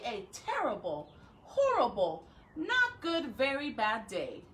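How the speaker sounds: put-on reading a picture book to children; story reading. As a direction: tell Alexander's gloomy day to kids.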